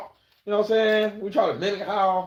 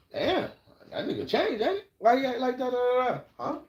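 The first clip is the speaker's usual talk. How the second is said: mock gossip; 7 semitones higher than usual. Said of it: "get the question like".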